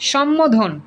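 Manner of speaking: সম্বোধন with the b lost into a double m; common mispronunciation. Shown as a demonstration. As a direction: say সম্বোধন as shom-mo-dhon. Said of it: "অনেকে যেটা ভুল করি".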